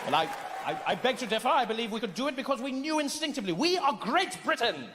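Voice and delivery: a hint of pompous British colonizer; lightly voiced British empire man. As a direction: protest with imperial self-importance. British colonizer defends the name.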